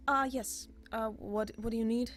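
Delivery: a busy librarian looking up from her work; flustered elf scholar. Acted.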